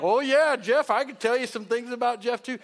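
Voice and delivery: a churchgoer jumping in with juicy gossip. Retold or imitated. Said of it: "Frank would be like".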